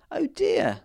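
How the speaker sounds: breathy high whisper of dismay; whispered oh dear. A narrator's reading. Big man learns picking kills the flower fairy: whispered dismay. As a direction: gasp it out under the breath. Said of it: "said the man".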